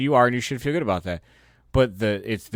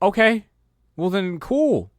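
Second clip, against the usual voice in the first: mock dismissive; 9 semitones higher, 5 dB louder than usual. Mocking dismissive reply.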